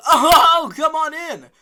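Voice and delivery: imitating Noah. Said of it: "Noah says".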